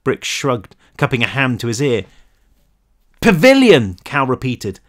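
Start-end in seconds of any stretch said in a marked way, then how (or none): 3.2-4.0 loud high yell, straining; shouting as loud as possible. A narrator's reading. Cal repeating to Brick who can't hear, full shout. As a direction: push it out with everything. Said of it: "as loud as he could manage".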